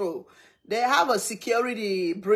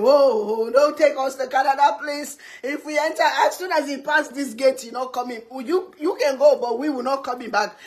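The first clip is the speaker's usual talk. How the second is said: mock panicked begging, raised voice; imitated screaming pleas; 3 semitones higher than usual. Everybody in the car begs not to enter Canada, mock screaming. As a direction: plead as a frightened carful, half-acted. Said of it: "Everybody's screaming".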